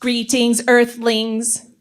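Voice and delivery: flat mechanical robot voice. Acted. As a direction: speak it like a machine. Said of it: "I am the fairy god robot".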